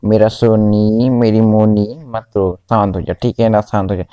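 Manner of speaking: calm the little one gently; mother rocking her crying daughter, soothing; soothing baby. Retold or imitated.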